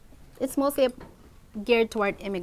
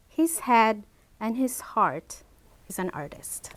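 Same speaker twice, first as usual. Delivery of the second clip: measured, phrase-by-phrase quote reading; formal recited saying, falling away at the close; reciting a quote. Acted. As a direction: read it out in deliberate pieces, pausing between.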